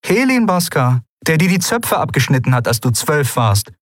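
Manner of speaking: high-pitched incredulous echo of the name; stunned disbelief. A narrator's reading. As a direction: repeat it in disbelief, starting high. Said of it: "Lien blinzelte fassungslos". (fassungslos nachfragend)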